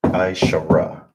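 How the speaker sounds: Aishara said clearly, ai-sha-ra; clear repeat. Shown as a demonstration. Teacher repeating ten slowly for the class. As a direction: sound out Aishara for the students. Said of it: "how you say ten is Aishara".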